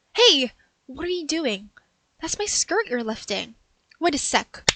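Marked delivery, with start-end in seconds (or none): 0.1-1.7 loud, sharp protest; woman stuck in window protesting the owner; indignant yelp. Acted. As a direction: snap in outrage. Owner lifts her skirt.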